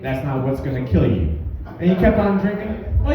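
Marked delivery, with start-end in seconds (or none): 0.0-1.4 guy at the bar. Retold or imitated. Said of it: "he's like".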